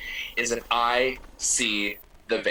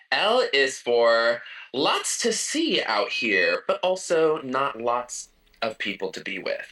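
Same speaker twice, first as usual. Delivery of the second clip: poem recital. Pretend. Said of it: "This is an acrostic that I wrote".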